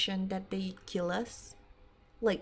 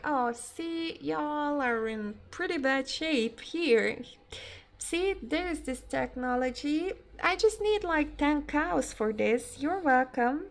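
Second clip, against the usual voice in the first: high, bright mock alien voice, slowing on the offer; mock alien salesman; 5 semitones higher than usual. Alien to humans, trading tech for cows, in a high mock voice. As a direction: play a smug alien offering a bargain.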